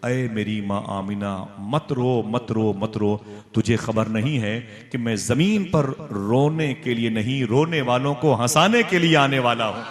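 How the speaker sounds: slow, solemn comforting voice; unborn child's voice. Retold or imitated. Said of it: "मेरे पेट से आवाज आई". (धीमी, तसल्ली देती आवाज़, फिर ऊँची)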